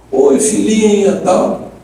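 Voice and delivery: wheedling dad, lightly acted; acted fatherly greeting. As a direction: coax a daughter on the phone. Father phones his daughter to ask.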